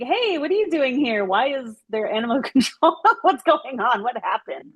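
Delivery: smiling greeting. Retold or imitated. Greeting animal control outside the house, smiling curiosity. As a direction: greet them with a smile in the voice. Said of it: "I was, like, smiling".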